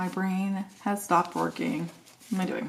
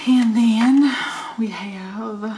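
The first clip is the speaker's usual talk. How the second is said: loud, higher-pitched Texas twang; Southern accent; 4 semitones higher, 9 dB louder, much slower than usual. Real, not acted. Crafter's Texas roots slipping out, Southern accent. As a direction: let a Southern yeehaw accent slip out, loudly. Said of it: "this weird accent is coming from".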